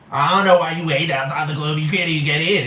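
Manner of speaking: lightly mocking, inarticulate imitation; a singer's group. Repeating the club group's taunt, lightly slurred mockery. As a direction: run the words together in light mockery. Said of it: "that voice is very not articulate".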